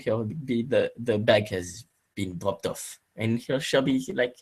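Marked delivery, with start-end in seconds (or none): 1.0-3.0 put-on a light French accent, slightly lower; the chauffeur reports in a hint of a French accent. Chauffeur telling the lady her bag was dropped off, light French accent. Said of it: "in a French accent".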